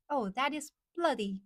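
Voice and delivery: British "bloody hell" demo; mock-British exclamation; British accent. Shown as a demonstration. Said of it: "Something like that".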